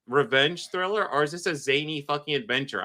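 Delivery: puzzled, throwing the question at the show; baffled retold question. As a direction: listener imitating their own confusion at the tone shift. Retelling baffled reaction to episode.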